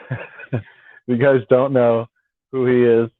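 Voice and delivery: talking through a real chuckle; amused, recovering from a laugh. Real, not acted. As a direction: let a real laugh break into the start. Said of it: "Sorry, I'm laughing".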